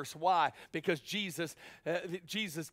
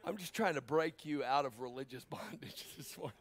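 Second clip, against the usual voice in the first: laughing whisper; 5 dB quieter than usual. Real, not acted. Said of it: "laughing aside to congregation".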